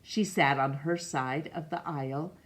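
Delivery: steady, gentle read-aloud for a class; story narration. Acted. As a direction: read it like a picture book to children. Reads picture book aloud.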